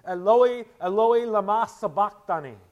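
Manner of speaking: Jesus crying out to God, loud and high. Acted. Jesus calling to God from the cross, loud anguished cry. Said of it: "Jesus cried out with a loud voice".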